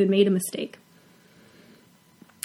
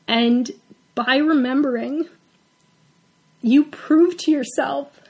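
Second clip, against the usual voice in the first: getting emotional; 2 semitones higher than usual. Real, not acted. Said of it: "I apologize that I'm getting emotional".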